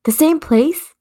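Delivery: sharp retort. Acted. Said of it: "he retorted".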